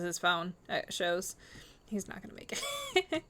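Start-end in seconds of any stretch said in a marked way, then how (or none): 1.9-3.2 mock doom, pitched way up; dramatic high pitch. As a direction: sing it out high like a tragic verdict. Repeats prediction for dramatic effect.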